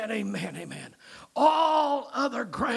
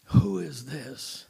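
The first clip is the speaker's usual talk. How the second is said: humble adoration; 5 semitones lower, slower than usual. Shown as a demonstration. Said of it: "I say it with humble adoration".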